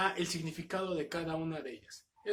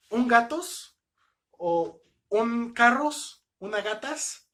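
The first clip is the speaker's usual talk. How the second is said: higher, louder, drawn-out wrong example; mock wrong form; 4 semitones higher, 5 dB louder, slower than usual. Shown as a demonstration. Teacher exaggerating wrong plurals to show error. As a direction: exaggerate the mistake so it sounds silly. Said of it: "Pues no, no se diría así".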